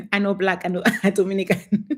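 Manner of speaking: giggling through a mock quote; laughing mockery. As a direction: say it while laughing at him. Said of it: "just a bit like".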